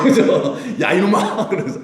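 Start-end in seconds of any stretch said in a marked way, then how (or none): 0.8-1.5 higher-pitched playful telling-off; mock rough scolding. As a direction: scold crudely, half in jest. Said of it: "저같이 이렇게는 말 못하고요". (장난스럽게 거칠게 호통치는 말투)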